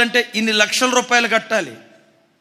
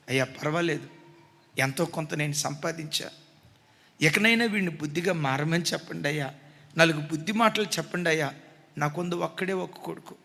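weeping mother; 4 semitones lower, 6 dB quieter than usual. Retold or imitated. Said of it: "ఏడుస్తుంది".

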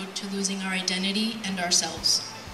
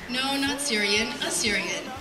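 slow correction, setting "Assyrian" apart; patient, spaced-out correction ending firmly down on "Assyrian"; correcting; 2 semitones higher, slower than usual. Retold or imitated. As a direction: slowly correct "Syrian", then land "Assyrian" on a falling tone. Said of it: "the conversation goes something like this".

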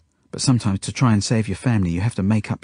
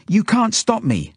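put-on very high, slow child's challenge; defiant shout; 13 semitones higher, 4 dB louder, slower than usual. A narrator's reading. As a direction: shout back in open defiance. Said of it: "she shouts back".

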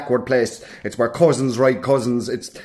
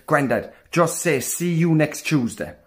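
slow, softer, spelled-out advice; coaching granddad; 5 dB quieter, slower than usual. Acted. Grandson teaching granddad a polite substitute, slow and careful. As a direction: lay it out slowly, as if teaching him. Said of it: "And I said it to him".

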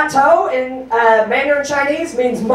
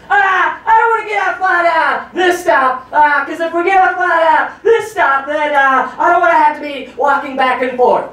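shouting father-in-law; 6 semitones higher than usual. Retold or imitated. Son-in-law imitating his father-in-law's shouting on the train. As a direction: belt it out like an annoyed dad-in-law. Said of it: "my father-in-law is saying something like".

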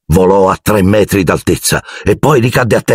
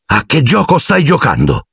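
shouted; 9 semitones higher than usual. A narrator's reading. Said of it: "gli gridò".

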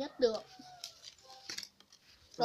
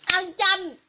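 excited announcing; 6 semitones higher, 14 dB louder than usual. Real, not acted. Announcing eating lime for camera.

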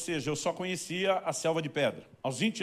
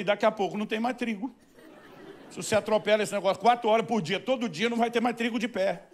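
indignant outburst; 5 semitones higher, 4 dB louder than usual. Retold or imitated. Pastor protests to the farmer.

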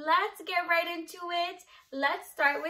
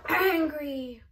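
mock angry; 3 dB louder than usual. Shown as a demonstration. Acts out the named feeling.

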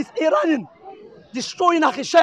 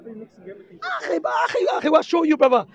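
calling out; slower than usual. Real, not acted. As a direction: shout across to a brother in the crowd. Calling out to brother across crowd.

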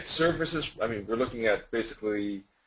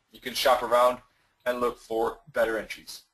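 rough, hoarse, throat-clearing voice. Real, not acted. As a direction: speak with a tired, hoarse throat. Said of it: "Losing my voice".

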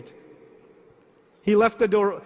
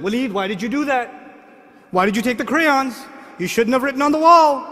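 building scold, getting louder to the end; retold yelling at son; 4 dB louder than usual. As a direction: scold the kid, rising into a yell. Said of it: "And I'm yelling at him".

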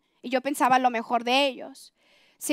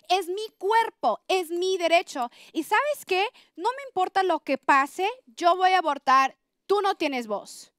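high-pitched, indignant accusation without shouting; furious defiance, retold; 4 semitones higher than usual. Woman retelling how she denied boyfriend any say, angry and defiant. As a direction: shut him down, drawing out the last words. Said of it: "salió la leona y me dio un coraje".

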